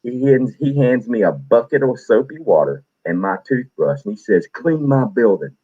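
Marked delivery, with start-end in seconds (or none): 4.5-5.6 higher, slow deliberate command; drill sergeant order. Retold or imitated. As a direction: lay down the punishment slowly. Drill sergeant giving punishment.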